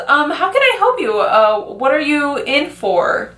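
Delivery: high, sweet customer-service voice, slowing down; mock-polite teller helping the next man; polite bank worker. Bank worker asks the man in line what he needs, sweetly.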